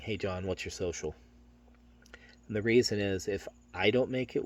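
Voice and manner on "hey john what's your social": matter-of-fact. Shown as a demonstration. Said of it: "I'm matter-of-factly asking".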